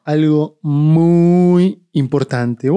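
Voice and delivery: slow, drawn-out sinister host voice; horror host. Acted. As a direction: stretch it out like a creepy TV host. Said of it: "Esa risa malvada". (presentador de terror, lento y siniestro)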